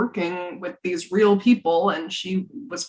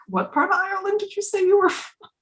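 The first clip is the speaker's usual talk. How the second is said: high, fast mock-quizzical question; sceptical listeners; 13 semitones higher, faster than usual. People questioning the fake Irish princess, high mock doubt. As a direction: quote the doubters in a raised, hurried voice. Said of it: "people are like".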